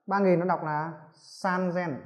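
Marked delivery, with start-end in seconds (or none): 1.1-1.9 Sanzen slowly, with a z in zen; voiced z in Sanzen. Shown as a demonstration. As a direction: stretch out Sanzen, voicing the z clearly. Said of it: "Chúng ta cần phải chú ý".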